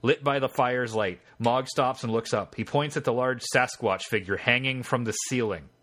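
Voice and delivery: measured game-master narration; story narration. A narrator's reading. Game master reading the scene to the player, story narration. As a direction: read the adventure text out as story.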